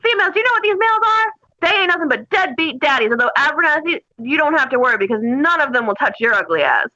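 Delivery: yelling drill sergeant. Retold or imitated. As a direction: imitate a drill sergeant chewing out recruits. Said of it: "He goes".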